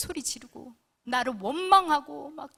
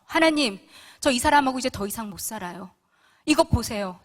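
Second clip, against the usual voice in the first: louder, demanding complaint to God; indignant prayer; 6 dB louder than usual. Retold or imitated. Wife telling God she is done, loudly indignant. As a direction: lay down the verdict, loud and aggrieved. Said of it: "통보하듯이 기도를 하기 시작했어요".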